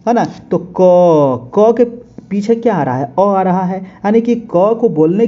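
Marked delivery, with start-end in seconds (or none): 0.7-1.5 क said slowly with its trailing अ clearly heard; sounding out a letter. Shown as a demonstration. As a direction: draw out क so the अ after it is heard. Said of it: "जैसे ही आप क बोलिएगा". (क को धीरे खींचकर, पीछे का अ सुनाते हुए)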